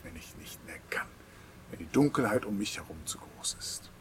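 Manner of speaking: a pleading prayer that sinks into a whisper; sample prayer. Shown as a demonstration. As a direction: ask it earnestly, then let it fade to a whisper. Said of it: "das ihn bittet und fragt". (flehendes Gebet, zuletzt geflüstert)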